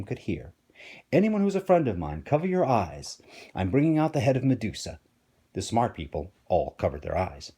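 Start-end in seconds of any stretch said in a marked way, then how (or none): 1.1-5.0 higher, calling out to everyone; shouting to the room. Acted. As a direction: call it across a crowded hall. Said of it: "He shouted to everyone in the room".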